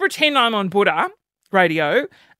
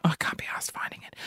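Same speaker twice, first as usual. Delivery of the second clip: muttered aside; 12 dB quieter, faster than usual. Real, not acted.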